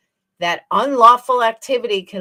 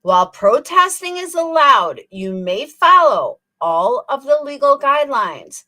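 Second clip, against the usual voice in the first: slow mocking reread; 4 semitones higher than usual. Shown as a demonstration. Reading it slowly to mock Betty. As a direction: spell it out as if to a slow child. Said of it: "I'll say it slow for Betty".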